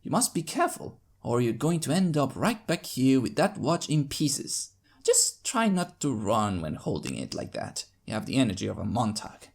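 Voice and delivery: lightly voiced calm doctor, patient warning. Doctor warning the little filly, lightly voiced. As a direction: gently warn the child to be careful.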